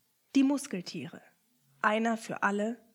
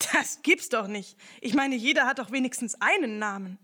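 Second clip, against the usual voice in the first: louder protesting insistence; indignant disbelief; 2 semitones higher, 5 dB louder than usual. Acted. Ernie protests to the rat, loud and indignant. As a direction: refuse to believe it.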